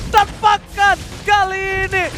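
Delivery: excited shout. Real, not acted. Caster hype moment in fight.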